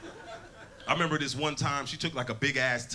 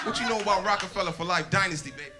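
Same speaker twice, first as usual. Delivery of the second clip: put-on old lady witness; 5 semitones higher than usual.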